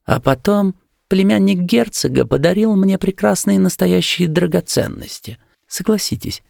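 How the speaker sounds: cool, high-voiced refusal; disapproving young woman. A narrator's reading. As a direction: speak high as a displeased young lady. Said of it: "сдвинула брови и сказала".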